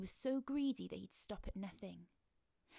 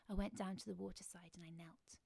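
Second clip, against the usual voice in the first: ordinary delivery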